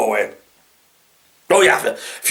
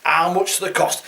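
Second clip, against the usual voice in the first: mock incredulous; 5 semitones higher than usual. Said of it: "English people that are saying this".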